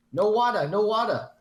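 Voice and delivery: high, loud mock Asian accent; Asian lady accent. Retelling an Asian lady on a fire call, mock accent. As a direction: cry it out in an exaggerated Asian accent. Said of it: "an Asian lady and she was like".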